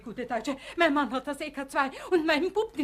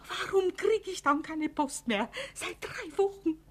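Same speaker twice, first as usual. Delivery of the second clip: tearful; 5 semitones higher than usual. Acted. Worried wife without mail, tearful.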